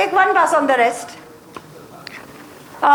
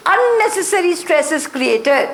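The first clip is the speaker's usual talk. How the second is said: unnecessary given the weight of the line; teacher stressing unnecessary while reading the dictum. Shown as a demonstration. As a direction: underline unnecessary with your voice. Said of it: "I underline the word unnecessary".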